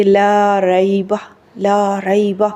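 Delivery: "لا ریبہ" with a long aa in "لا"; measured recitation, madd on "لا" before "ریبہ"; lengthened laa. Shown as a demonstration. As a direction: hold "لا", then keep "ریبہ" short. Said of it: "لا کو بھی ہم لمبا کریں گے".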